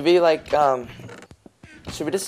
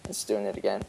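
mic popping like a heartbeat; popping crackly mic line; crackly usb mic; 6 semitones lower, 10 dB quieter than usual. Real, not acted. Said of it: "your mic is popping".

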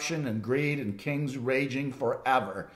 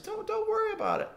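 calm reassurance. Retold or imitated. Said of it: "Elisha says".

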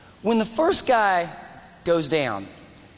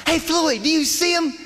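yelling across; 9 semitones higher than usual. Retold or imitated. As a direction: call out across a street. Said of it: "yells across the street".

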